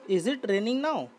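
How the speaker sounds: very slow, each word spaced out; slow classroom dictation; slow model reading. Shown as a demonstration. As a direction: read the question slowly for the class. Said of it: "teacher reads model question".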